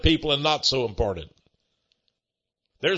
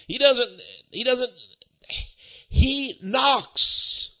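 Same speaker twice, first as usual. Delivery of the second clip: higher pitched insistence; emphatic; 8 semitones higher, much slower than usual. Acted. Preacher stressing that God knocks, emphatic raised voice. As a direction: rise up on he knocks. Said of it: "emphatic build".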